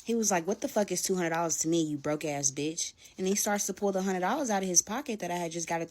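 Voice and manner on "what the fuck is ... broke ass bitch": loud retold snarl, slowing at the end; angry insult. Boyfriend insulting her over two hundred dollars, loud snarl. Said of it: "starts to say how I'm ungrateful".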